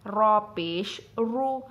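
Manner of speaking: slow, full heavy रू with pesh; drawn-out thick रॉ पेश रू. Shown as a demonstration. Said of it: "एक बार पढ़ लेते हैं". (मोटा रू, धीरे से)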